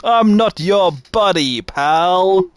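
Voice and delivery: hammed-up Canadian accent; mock Canadian accent. Shown as a demonstration. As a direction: draw it out as a stereotyped Canadian retort. Trying stereotypical Canadian catchphrases.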